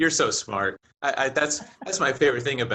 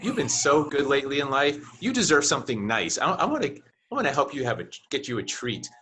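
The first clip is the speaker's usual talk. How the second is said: pet talk salesman. Pretend. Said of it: "if I were the salesperson, I'd be like".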